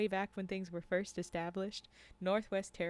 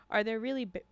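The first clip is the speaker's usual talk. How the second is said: put-on southern accent; 2 semitones higher, 5 dB louder, faster than usual. Hunter asking guides about bears, southern accent. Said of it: "now I'm doing a southern accent".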